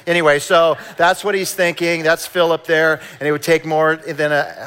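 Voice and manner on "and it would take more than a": robot voice. Retold or imitated. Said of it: "I don't know why I sounded like a robot".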